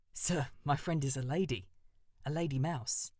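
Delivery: a nervous bird calling up politely; eager crow Jeremy. Acted.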